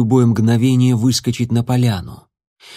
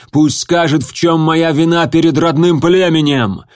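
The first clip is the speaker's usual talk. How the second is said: rising indignant defense, louder to end; defiant proud protest; 3 semitones higher, 4 dB louder than usual. Acted. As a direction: build up to a proud challenge. Stone defends his loyalty.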